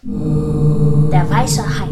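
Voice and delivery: ominous sung-out announcement; title announcement. Acted. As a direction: intone the film title, hugely drawn out. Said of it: "Tara den Titel dieser Variante ansagt".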